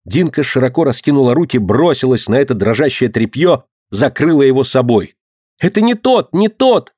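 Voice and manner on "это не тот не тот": desperate cry. A narrator's reading. Dinka shields the boy from the crowd, desperate high cry. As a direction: beg them to stop, cry it out. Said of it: "отчаянно кричала она".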